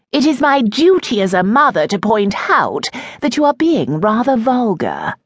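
a hint of a haughty mother teasing her son; Lady Dibbleshire, mother. A narrator's reading. Mother mocking her son's theatrics, lightly voiced.

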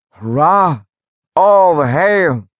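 a triumphant cheer. Acted. Workers cheer the milestone.

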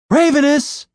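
high call to a bird. Acted. Julian summoning his bird, calling out. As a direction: call him from afar.

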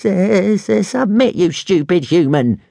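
high, stuttering dragon whine; moaning dragon. A narrator's reading. Little dragon urges his human to give up, moaning. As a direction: stammer it in a high, pleading creature voice. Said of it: "moaned Toothless".

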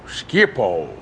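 Schiphol low as SKHIP-ol; Schiphol, SKHIP-ol, lingering; Dutch pronunciation. Shown as a demonstration. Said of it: "does the very name smack of adventure".

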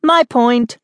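high, triumphant claim; cried out. A narrator's reading. Kid claiming the point from sister, triumphant cry. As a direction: claim the win gleefully. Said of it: "I cried".

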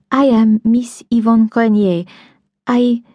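put-on a light French accent, breaking off; lightly voiced young Frenchwoman; French girl. A narrator's reading. French girl introducing herself, lightly accented.

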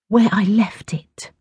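slow, sighed sulky reply; sighing. A narrator's reading. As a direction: answer on a weary sigh. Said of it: "Tash sighed".

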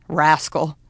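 low, lightly smiling father; a mild fond murmur, pitched low. A narrator's reading. Papa speaks fondly of his feisty horse, murmuring. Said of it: "murmured Papa, smiling".

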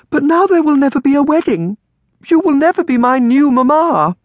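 put-on high-pitched, loud girlish lament; crying out. A narrator's reading. Orphaned girl losing the hoped-for wedding, crying out. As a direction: wail it like a heartbroken child. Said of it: "Amelia cried".

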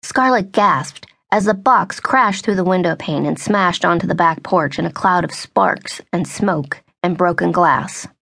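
ordinary delivery

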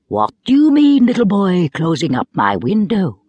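high, loud opening, then settling into mild reproach; a gentle voice with a touch of anger; an offended wind scolding a little boy mildly; gentle but a little angry. Acted. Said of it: "quite gentle sounded a little angry".

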